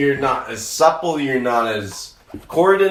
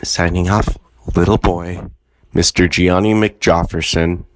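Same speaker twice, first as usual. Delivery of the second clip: lower mock announcer voice; 8 semitones lower, 3 dB louder than usual. Mock grand sign-off.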